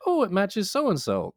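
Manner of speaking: imitating a delighted little girl, high and slow; high, slow, cheerful child voice; little girl's happy tone. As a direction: chirp it like a pleased kid. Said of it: "that was the exact tone she used".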